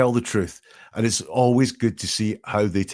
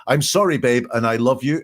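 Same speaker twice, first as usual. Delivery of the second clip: mock plea; 2 semitones higher, 4 dB louder than usual. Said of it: "Then he says".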